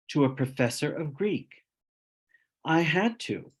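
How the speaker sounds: wry poetry recital with deliberate pauses; poem reading. Acted. Poet recites his underwear poem based on a true story, measured comic recital. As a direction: deliver the verse as a comic confession, phrase by phrase.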